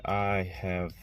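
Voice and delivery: congested, tired flu voice; sick with flu. Real, not acted. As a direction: talk like you're ill with flu. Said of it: "I have got the flu A, and I am feeling like crap".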